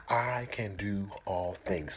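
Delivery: slow whispered affirmation. Shown as a demonstration. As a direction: whisper it slowly. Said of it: "Say it with me".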